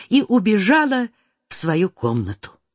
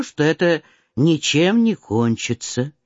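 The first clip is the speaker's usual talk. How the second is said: usual speaking voice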